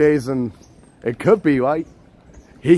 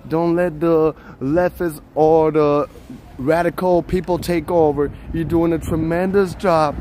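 lightly voiced presidential impression; a hint of Trump praising a fan; Donald Trump; 2 semitones higher than usual. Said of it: "Sure, the Trump impression".

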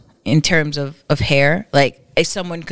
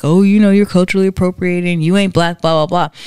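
loud, fast mock scolding; mimicking online critics, loud and fast; mocking callout; 6 dB louder, faster than usual. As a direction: rattle off a preachy callout. Mock callout of white girl.

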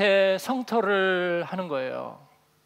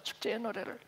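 축제의 노래를 repeated much softer, almost to himself; 축제의 said softly, dropping away; quiet echo; 12 dB quieter than usual. Shown as a demonstration. Preacher echoing the festival song phrase, much softer. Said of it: "축제의 노래를 부르는 거예요".

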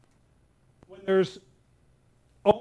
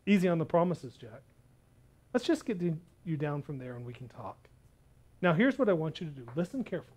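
calm instruction; 2 semitones lower, 5 dB quieter, faster than usual. Acted. God calmly instructs Jack.

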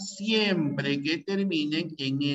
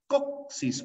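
Coxis split up, high pitch on CO; stress on penultimate syllable; 10 semitones higher than usual. Shown as a demonstration. Teacher showing a palabra grave, Coxis with a high stressed CO. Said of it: "fuerza de".

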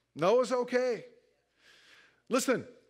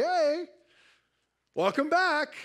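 friendly welcome; 5 semitones higher, slower than usual. Acted. Acted friendly greeting after pity party.

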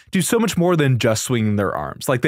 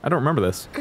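usual speaking voice

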